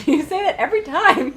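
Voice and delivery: laughing through the words. Real, not acted. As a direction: chuckle while saying it. Laughing at player's outburst.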